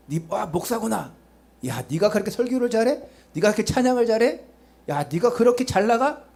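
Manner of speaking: lightly acted taunting interrogator; communist interrogator. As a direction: taunt with rising questions, mildly mocking. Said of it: "공산당이 쳐들어왔어요". (비아냥대며 심문하듯 끝을 올려서)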